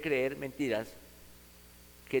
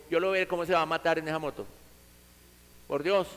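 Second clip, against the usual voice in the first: scornful father; faster than usual. Retold or imitated. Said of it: "el papá le dijo".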